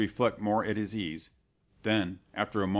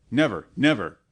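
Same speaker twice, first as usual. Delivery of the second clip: loud, final exclamation; dying man flatly refusing the monk; loud refusal; 9 dB louder than usual. A narrator's reading. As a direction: refuse outright, shaking his head. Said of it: "exclaimed Lorenzo".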